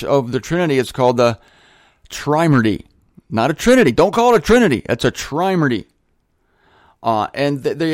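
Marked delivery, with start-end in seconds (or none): 3.3-4.8 emphatic, higher-pitched mock scolding; mock correction. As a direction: correct them with mock insistence.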